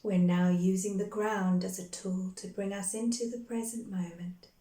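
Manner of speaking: calm, measured meditation guide with long pauses between phrases; guided meditation. Real, not acted. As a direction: guide them gently into breath and grounding, unhurried. Leads a guided grounding meditation.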